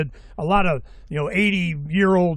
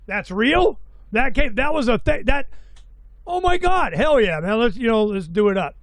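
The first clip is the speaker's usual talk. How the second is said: excited disbelief; 3 semitones higher than usual. Retold or imitated. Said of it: "And I go".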